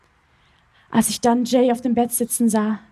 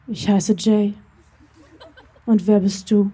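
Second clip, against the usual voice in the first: put-on lightly lowered, gentle voice of a young man; deep and tender; 2 semitones lower than usual. A narrator's reading. Handsome stranger greets a girl in the rain, lightly deep and tender. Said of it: "Seine Stimme war tief und es schwang eine Zärtlichkeit darin".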